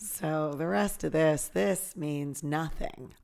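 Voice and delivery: hushed, slow whisper. Real, not acted. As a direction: whisper it like a secret. Whispered aside.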